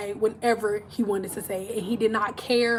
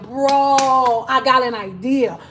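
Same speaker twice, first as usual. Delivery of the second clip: louder, conspiratorial pitch; scheming angel; 5 dB louder than usual. Retold or imitated. An angel suggesting they pass it to his daughter, louder and sly. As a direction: pitch the idea like a sly bro. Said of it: "one of the angels was like".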